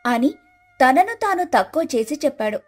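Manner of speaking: usual speaking voice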